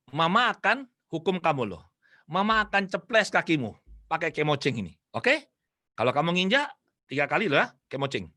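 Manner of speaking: retold stern motherly warning, measured phrases; starting to be firm. Mother warns her child about the duster, firmly. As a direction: warn the child firmly, pausing between phrases. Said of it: "mulai tegas ini".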